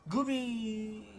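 failed attempt at a squeal, held out; forced squeal. Shown as a demonstration. Streamer forcing the voice, half-hearted squeal. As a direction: try the high call and fall short. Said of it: "I'm forcing it".

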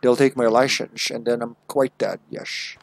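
slurred Scottish impression, s turned to sh; lightly hammed-up Scottish film star; Sean Connery. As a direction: play a suave Scot, slurring the esses. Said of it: "Sean Connery accent".

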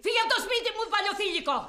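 furious, high-pitched dismissal; angry eviction. Acted. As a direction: throw them out with an insult. Boss throws employee out.

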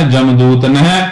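ਨਹਿ with the closing h clearly breathed; don't drop the h in ਨਹਿ; final h sounded. Shown as a demonstration. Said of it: "ਅਖੀਰਲੇ ਹਾਹੇ ਦਾ ਉਚਾਰਨ ਜ਼ਰੂਰ ਕਰਨਾ ਹੈ".

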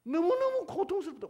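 high, loud suffering plea; anguished cry. Acted. Preacher voices God's pain, a high anguished cry. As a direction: cry out as if it hurts.

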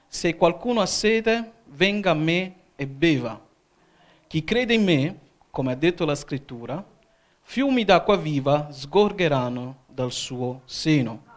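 slow, projected Bible reading; scripture reading. Real, not acted. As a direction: proclaim the verse to the congregation, phrase by phrase. Reads scripture aloud. (lettura solenne della Scrittura, scandita)

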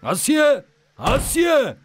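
angry husband shouting for his wife; shouting her name. Acted. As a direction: yell her name across the yard. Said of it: "اول داد نزن".

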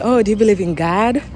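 lightly imitated American accent; mimicking American English. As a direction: ask it like an American, "Gahd". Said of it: "to them, it's like".

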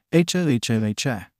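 slow drawn-out cackle in an odd voice. A narrator's reading. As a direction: cackle it out syllable by syllable. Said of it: "Denki cackled".

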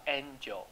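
slow "angel" said as AYN-jel; long first vowel. Shown as a demonstration. Teacher modelling a long vowel, "angel" as AYN-jel. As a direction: stretch the "ay" of "angel". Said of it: "所以这个N是长音哦".

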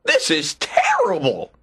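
high-pitched rabbit lament; distressed rabbit. A narrator's reading. Rabbit covered in tar bewails it, high and distressed.

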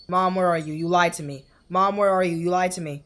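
loud, repeated calls for a missing mother; calling for Mom. Acted. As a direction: call out accusingly for Mom. Game child calling for missing mother.

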